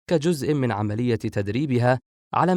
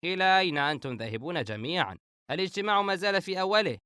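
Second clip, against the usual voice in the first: high-pitched, baffled protest; astonished; 8 semitones higher than usual. A narrator's reading. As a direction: ask in raised-pitch amazement. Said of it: "فهد بتعجب شديد".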